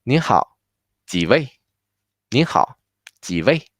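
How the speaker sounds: 您好 and 几位 said separately, a clear pause between them; careful teacher's model, one chunk at a time; piece by piece. Shown as a demonstration. Teacher putting the greeting together for students, piece by piece. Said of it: "so together will be".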